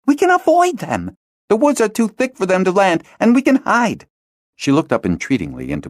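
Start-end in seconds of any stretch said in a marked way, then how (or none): 0.0-4.1 put-on high girl's voice, urgent; a girl begs her friend to stay hidden, urgent; entreating girl. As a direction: plead with him to stay. Hala pleads to stay hidden.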